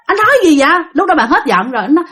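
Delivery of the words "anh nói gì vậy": high-pitched worried wife, acted. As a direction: question him in mild alarm. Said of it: "bạn nghe bạn rất là lo". (giọng vợ lo lắng hỏi dồn)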